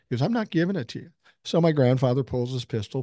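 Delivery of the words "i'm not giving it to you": raised-pitch mock refusal; retold refusal. Prisoner refusing grandfather's demand for the medal, retold refusal. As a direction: imitate a prisoner protesting, pitched up.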